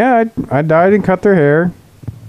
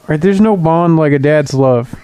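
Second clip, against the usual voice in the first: crying on the phone. Acted. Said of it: "Are you crying right now?".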